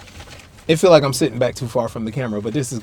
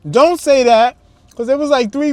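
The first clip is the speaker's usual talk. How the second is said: laughing; 11 semitones higher, 6 dB louder than usual. Real, not acted. Laughs at friend's excuse.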